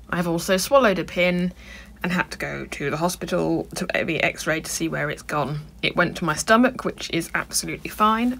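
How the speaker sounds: words around a mouthful of pins. Real, not acted. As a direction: talk through pins held in lips. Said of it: "I've got pins in my mouth".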